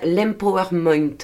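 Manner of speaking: l'empowerment said in an English accent, half laughing. Shown as a demonstration. Podcaster apologizes to listeners for her clumsy English accent. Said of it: "Excusez-moi pour mon accent anglais pourri".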